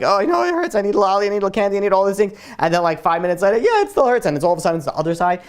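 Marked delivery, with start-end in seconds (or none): 0.0-2.4 lightly imitated kid begging for treats; whining kid. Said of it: "like a kid gets a boo-boo". 3.6-4.2 high-pitched imitation of a hurt child; put-on little-kid complaint; whining kid. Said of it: "like a kid gets a boo-boo".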